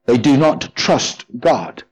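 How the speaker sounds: slow, with trust leaned on hard; stress on trust. Shown as a demonstration. Preacher to the congregation, stress on trust. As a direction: press down on the word trust. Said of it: "I'm putting the emphasis on the word trust".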